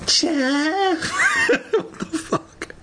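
breaks up laughing, then whispered swear; laughing breakdown. Real, not acted. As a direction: lose it mid-reading.

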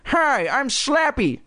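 very high, drawn-out dummy greeting; high, stretched ventriloquist's squeak; Slappy calling out. A narrator's reading. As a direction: call out slowly in a squeaky puppet voice. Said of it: "made the dummy call out".

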